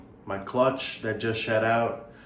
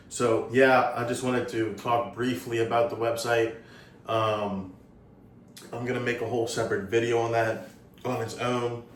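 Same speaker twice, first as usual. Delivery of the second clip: talking through hiccups; hiccuping. Real, not acted. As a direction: hiccups breaking up the words. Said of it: "Sorry, I have the hiccups right now".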